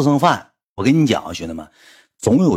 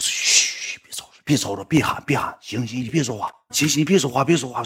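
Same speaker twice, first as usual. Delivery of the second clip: hushing; 5 dB quieter than usual. Retold or imitated. Shushing the loud fan.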